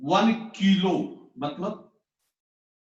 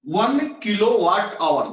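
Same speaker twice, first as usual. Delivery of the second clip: slow reading demo; 3 semitones higher, 4 dB louder, slower than usual. Shown as a demonstration. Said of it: "क्या पढ़ते हैं?".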